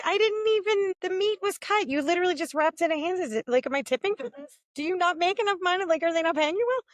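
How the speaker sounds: high, fast disbelieving rant; incredulous rant. Retold or imitated. To the butcher about the tip screen, high incredulous rant. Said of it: "And I'm like".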